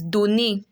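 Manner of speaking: "donné" with E R said as ay; French é sound. Shown as a demonstration. Teacher gives the second example, careful French pronunciation. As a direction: say "donné" ending in a closed é, no R. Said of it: "gives an A sound".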